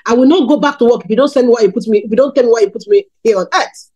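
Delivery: quick, offhand restatement of a vow; fast, unweighted quote; casual. Retold or imitated. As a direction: rattle it off casually, just like that. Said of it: "Just like that".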